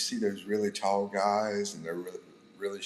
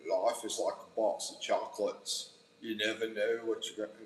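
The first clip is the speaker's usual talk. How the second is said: Forrest Gump; 3 dB quieter than usual. Acted. Streamer doing Forrest Gump for a viewer, attempted Southern accent. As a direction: try a Southern accent like a movie simpleton. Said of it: "I'll do Forrest Gump".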